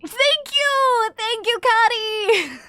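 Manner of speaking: high, loud laughing "Thank you". Real, not acted. Streamer thanking a viewer, laughing loudly. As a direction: squeal thanks through laughter.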